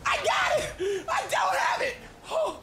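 very high laughing yell; frantic shout. Real, not acted. Gamer panicking over the ball, laughing shout. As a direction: scream it in a panic, half laughing.

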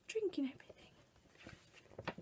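slow, hushed, disbelieving whisper; whispered aside. Acted. Telling the children what the tiger is doing, in a slow whisper. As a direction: lean in and whisper it slowly.

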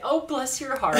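high, laughing Southern "bless your heart"; mock Southern accent. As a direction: tease with a light Southern drawl. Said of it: "How many times do you bless people's heart".

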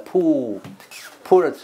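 slow, drawn-out "pool", then "pullet" with the same oo; "pool" vowel. Shown as a demonstration. Teacher linking "pullet" to "pool" for students, drawn-out vowel. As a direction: stretch the oo, carry it into "pullet". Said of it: "这是同族群的pool".

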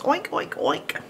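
"oink" breathy and slow like a pig; mock a pig's oink; playful pig noise. Shown as a demonstration. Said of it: "A pig makes the oink sound".

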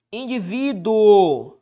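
Indivíduo drawn out slowly, syllable by syllable; teacher dictating Indivíduo; slow stressed word. Shown as a demonstration. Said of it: "Indivíduo é uma paroxítona".

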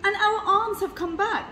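very high, loud exclamation; excited cry. A narrator's reading. Mister Gregg finding his arms are back, crying out. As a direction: call it out at the top of the range. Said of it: "cried Mister Gregg".

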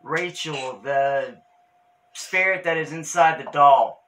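calling out loud. Real, not acted. Calling out to a spirit.

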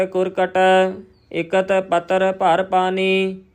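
slow, measured chant-like reading on a level tone; scripture recitation. Shown as a demonstration. Teacher reciting Gurbani for learners, slow measured recitation. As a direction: recite each phrase deliberately, drawing out the vowels.

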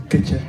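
"Culture" modelled low and soft; demonstrated pronunciation. Shown as a demonstration. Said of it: "You say".

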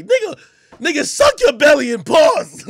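loud exasperated yell at the screen; mock yell. Yelling at the fat performer on screen, loud and exasperated. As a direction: yell at him to move. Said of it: "I said".

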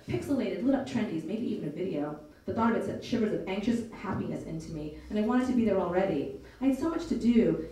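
put-on lively audiobook read of a teen's story; story narration. A narrator's reading. Narrator reading a novel to listeners, storytelling voice. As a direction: tell it like a storyteller.

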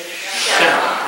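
Shema spoken slowly, first syllable drawn out, falling at the end; Shema said for the congregation. Shown as a demonstration. Preacher leading the congregation to repeat Shema, slow and clear. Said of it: "everybody say that with me".

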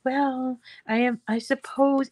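lightly voiced hesitant, thoughtful man; a mild imitation of someone mulling it over; soft-spoken, pensive trainer. Mum quoting the trainer who thinks about everything, gently pensive. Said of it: "he's so soft-spoken and pensive".

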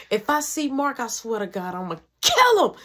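mock mom threat with a punched finish; heated. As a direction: imitate a heated mother swearing revenge. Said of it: "I'm real heated".

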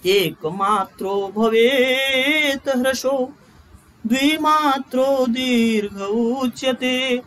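slow chanted Sanskrit verse; shloka recitation. Shown as a demonstration. Teacher reciting the shloka for students to memorise, slow chant. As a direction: recite the verse slowly, drawing out each line. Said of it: "यह श्लोक सभी लोग याद रख लीजिएगा".

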